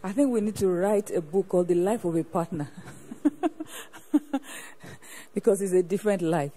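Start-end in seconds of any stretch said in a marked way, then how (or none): 0.0-2.7 words riding on a laugh; amused, louder remark through a laugh; laughing while speaking. Real, not acted. Host laughs at testimony. 2.7-5.3 a long breathy burst of laughter; real unvoiced laughter after a quip; hearty laugh. Real, not acted. Host laughs after own joke.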